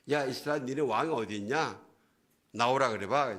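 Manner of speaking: mocking taunt; Goliath. Goliath mocks Israel about its absent king, mock taunting. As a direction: imitate a jeering challenge to a cowed army. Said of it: "온갖 조롱하고 모욕하는데".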